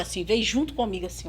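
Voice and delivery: usual speaking voice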